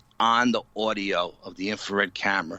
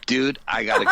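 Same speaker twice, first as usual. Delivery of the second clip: laughing through it; 4 semitones higher, 5 dB louder, faster than usual. Retold or imitated. Friend retells Brian's urgent plea.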